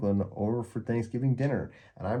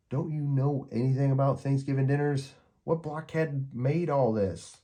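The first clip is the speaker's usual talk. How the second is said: put-on high scornful girl's voice, slowing on the last question; disgusted Peppermint Patty; 6 semitones higher than usual. A narrator's reading. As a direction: sneer at whoever cooked this. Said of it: "throws down her popcorn in disgust".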